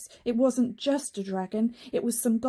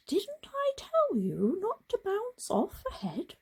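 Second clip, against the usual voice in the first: stern teacher; 12 semitones higher than usual. Acted. Teacher scolds Frog.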